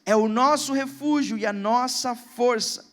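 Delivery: slow, weighty reading of the psalm; solemn scripture reading. Acted. Pastor reading Psalm forty-six to the church, slow and solemn. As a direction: let each line of the psalm land slowly.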